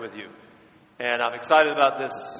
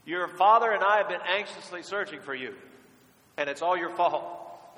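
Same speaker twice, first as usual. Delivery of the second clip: mother's reproach; 4 semitones higher than usual. Retold or imitated. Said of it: "Mary said the same thing".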